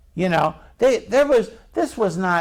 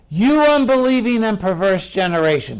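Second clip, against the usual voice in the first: a touch of fed-up reproach; frustrated. Acted. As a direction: scold them in mild frustration. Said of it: "Here's the frustration".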